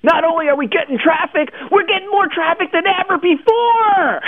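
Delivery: high, gushing mock excitement; excited commenter. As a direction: gush like a thrilled reader. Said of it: "she's saying".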